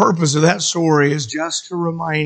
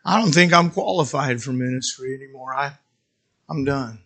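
dejected resignation; 4 semitones lower, 3 dB quieter than usual. Acted. Peter gives up on ministry.

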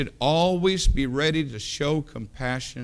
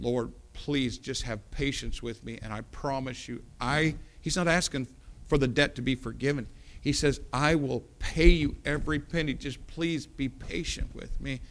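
weeping plea; 3 dB quieter than usual. Acted. He's weeping.

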